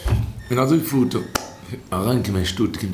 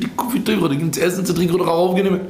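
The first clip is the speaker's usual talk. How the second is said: high, fast mock protest; retold shout; 5 semitones higher, much faster than usual. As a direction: imitate an owner crying out in rapid indignation. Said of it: "der Balabus schreit".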